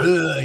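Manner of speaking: imitating a cartoon dwarf's guttural ugh; throaty grunt like a drunken Scot. Retelling the cartoon dwarves, a guttural mock grunt. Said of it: "It was very guttural".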